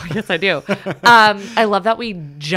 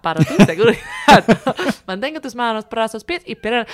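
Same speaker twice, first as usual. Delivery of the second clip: Spanish accent; 2 semitones higher, 4 dB louder than usual. Shown as a demonstration. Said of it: "take it from the top".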